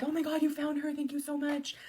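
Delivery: high, loud, put-on sobbing gratitude; mock fake crying. Mother fakes tears thanking the officer, hammed-up crying. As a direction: overplay the tears like a bad actress. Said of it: "This was so fucking fake".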